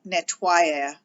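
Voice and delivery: nettoyer with the middle i gliding smoothly, no hard y. Shown as a demonstration. Teacher showing the future spelling, nettoyer with a smooth glide. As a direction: let the oi of nettoyer slide into the ending. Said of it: "a little bit more fluent".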